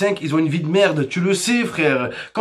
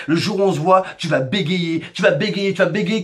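put-on tough-kid threat; 3 semitones lower than usual. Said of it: "Ils aiment trop dire ça".

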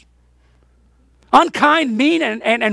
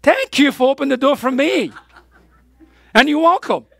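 sarcastic thanks; 3 semitones higher than usual. Retold or imitated. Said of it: "And I said".

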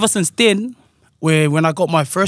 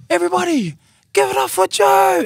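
mock MC announcement; 13 semitones higher than usual. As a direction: announce the next act to the crowd. Imitating the singer announcing.

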